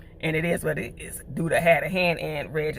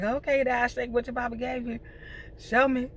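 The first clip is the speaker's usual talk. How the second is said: playful egging on; 8 semitones higher than usual. Retold or imitated. Grandma egging on a stripper.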